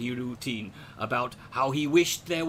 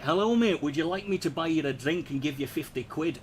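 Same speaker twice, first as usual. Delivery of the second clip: Glasgow accent. Shown as a demonstration. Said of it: "you got Glasgow".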